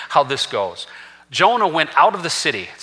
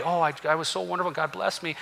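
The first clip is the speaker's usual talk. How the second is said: mock false humility; 10 dB quieter, faster than usual. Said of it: "Or false humility".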